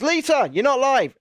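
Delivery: high-pitched retold call; mock shouting. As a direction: imitate yourself calling down the stream. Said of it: "heard me shouting down the thing".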